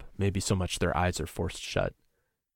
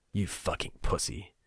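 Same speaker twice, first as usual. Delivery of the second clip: hissed taunt; 4 dB quieter than usual. Acted. Nico taunting in the dark.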